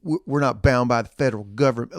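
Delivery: lightly put-on country accent; a hint of a country accent, mocking. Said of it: "that was derogatory in a, a country accent".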